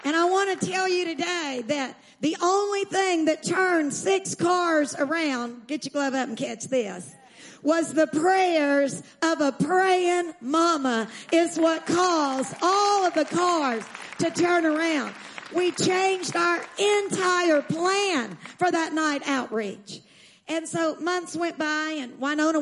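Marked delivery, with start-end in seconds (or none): 2.2-5.7 slow emphatic preaching. Real, not acted. Preacher stressing key phrase. 7.6-20.0 emphatic preaching. Real, not acted. Preacher driving home main point.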